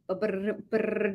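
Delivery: soft lip-trill drum roll, building suspense; mock drum roll. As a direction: roll the lips like a little drumbeat before the reveal. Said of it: "drum roll".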